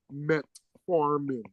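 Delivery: "metformin" in two clean parts, met-formin; correct pronunciation. Shown as a demonstration. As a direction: say "metformin" slowly, no vowel after met. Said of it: "Don't say metaf".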